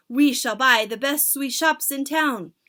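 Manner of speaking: very high, loud screeching chorus; witch chorus. Acted. Witches begging their leader, high screech. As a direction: shriek it like eager witches.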